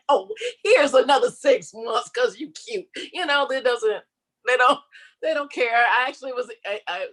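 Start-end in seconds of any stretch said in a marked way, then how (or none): 0.0-2.9 high, fawning, sing-song landlord voice; imitated landlord. Landlord mockingly pictured doting on famous tenant. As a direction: play the landlord sweet-talking a tenant. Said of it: "The landlord is not going".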